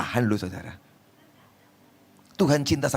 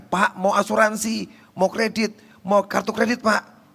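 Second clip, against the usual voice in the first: higher-pitched salesman's pitch; pushy salesman; 8 semitones higher than usual. Acted. Salesman offering credit and insurance to a passer-by, high sales patter. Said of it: "Kalau ada yang nawarin".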